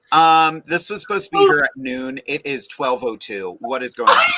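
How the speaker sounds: indignant complaint. Retold or imitated. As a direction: get huffy about the late food. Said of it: "I get real indignant".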